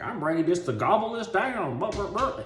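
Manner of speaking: high-pitched greedy relish; hammed-up hungry excitement; eager mock glee. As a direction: gush it, then babble away. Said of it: "and you're just like".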